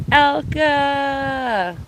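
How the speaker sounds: testing how the name sounds yelled; hollering a name. Shown as a demonstration. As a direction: call the name out loud, high and long. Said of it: "when you holler it".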